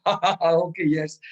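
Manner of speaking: put-on laughter in an angry person's face; mock loud laughing. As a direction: laugh loudly, then a laughing "okay, yes". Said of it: "you start laughing loudly".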